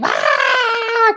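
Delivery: high-pitched mock wail of screaming kids; long, high squeal without full volume; imitated kids' scream. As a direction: imitate children shrieking, held high. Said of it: "kids, you know, screaming".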